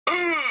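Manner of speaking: mimicked wordless "ugh" noise; drawn-out mock "ugh"; imitated grunt of "ugh". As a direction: act out the character's reaction noise. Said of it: "and he's like".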